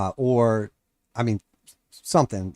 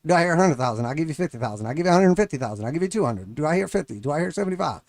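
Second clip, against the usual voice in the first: auctioneer; 3 semitones higher, faster than usual. Retold or imitated. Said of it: "It's like an auctioneer out there yelling price at you".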